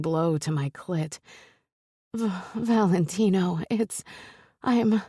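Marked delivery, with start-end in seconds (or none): 2.2-5.0 rising, breathless, stammering; breathless gasping. Acted. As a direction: gasp his name, losing words. Heroine gasping mid-climax.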